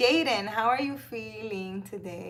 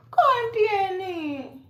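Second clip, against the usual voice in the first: high, louder sing-song pet talk; 10 semitones higher, 6 dB louder than usual. Real, not acted. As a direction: coo and scold the cat gently. Talking baby talk to her cat.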